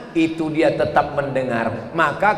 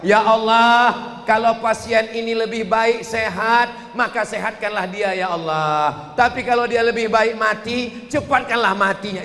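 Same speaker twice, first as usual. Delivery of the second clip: prayer rising high and loud, careless of the family; higher, louder praying by the bedside; loud insensitive prayer; 6 semitones higher than usual. Retold or imitated. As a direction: pray aloud without tact. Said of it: "jangan kuat-kuat".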